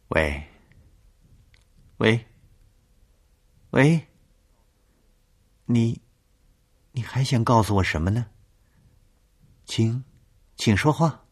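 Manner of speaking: rising panicked hello; frightened calling. Acted. Frightened woman calling into phone.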